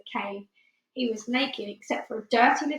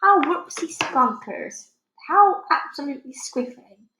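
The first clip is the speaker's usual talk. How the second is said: giant's delighted exclaim; 6 semitones higher, 6 dB louder than usual. Acted. The BFG beaming at Sophie, high delighted giant voice. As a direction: gush with childlike glee.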